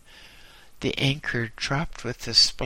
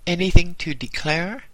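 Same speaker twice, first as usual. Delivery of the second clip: customs officer; 7 semitones higher, 8 dB louder than usual. A narrator's reading. Customs officer questions arriving sailor.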